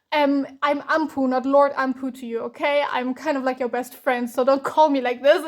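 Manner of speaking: mildly acted indignant correction; mock offended. Anpu insisting he is a best friend, mildly offended. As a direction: put your foot down, lightly playing affronted. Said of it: "he was literally offended".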